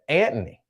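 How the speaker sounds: "Anthony" with a plain T, no H; aunts' pronunciation. Retold or imitated. Host imitating aunts saying a name, "Anthony" as "Antny". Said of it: "how my aunts and them would say it".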